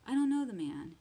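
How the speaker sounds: loud, high-pitched, forceful denial; sworn denial. A narrator's reading. Peter swearing to bystanders by the rooster, loud emphatic denial. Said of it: "and he swore to them".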